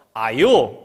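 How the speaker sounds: loud Gyeongsang 아요; Gyeongsang call. Retold or imitated. Teacher calling the children, Gyeongsang dialect. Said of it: "경상도 말로".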